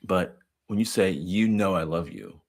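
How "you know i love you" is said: slow, offhand brush-off; a touch of dismissiveness in a father's reassurance; dismissive tone. Retold or imitated. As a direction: say it like it needn't be said. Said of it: "there's dismissiveness".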